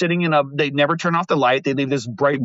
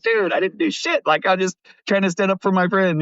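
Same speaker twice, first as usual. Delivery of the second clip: much higher, pleading protest to the cop; protesting innocence; 5 semitones higher than usual. Retold or imitated. Arrested guest protests to the cop, higher and pleading. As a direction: insist you did nothing, pitched up. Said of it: "And I'm like".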